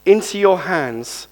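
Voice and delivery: mild calling-out to a father; loud cry, retold. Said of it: "He cried out in a loud voice".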